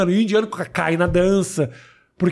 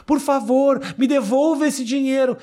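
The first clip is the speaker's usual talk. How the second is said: put-on lightly done Indian accent pleading; 5 semitones higher than usual. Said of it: "com um sotaque louco". (sotaque indiano leve)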